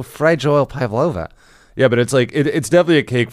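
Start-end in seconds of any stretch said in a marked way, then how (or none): 0.0-1.3 mock Aussie accent on the catchphrase; lightly put-on Australian accent; imitation Australian vowels. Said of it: "read it in an Australian accent".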